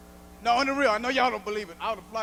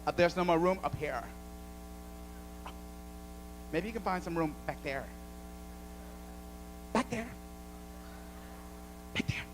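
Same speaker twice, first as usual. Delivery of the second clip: much lower, much softer snooty voice; prissy white flight attendant; 7 semitones lower, 8 dB quieter than usual. Retold or imitated. Mocking a snooty attendant asking to hang his coat, hushed. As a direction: put on a condescending prissy attendant. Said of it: "Little Miss White Prissy Flight Attendant".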